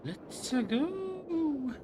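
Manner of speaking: high, loud cry of let's go; excited cry. Real, not acted. Gamer leaping into the exit with an excited cry. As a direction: launch it like a battle cry. Cheering as she jumps in.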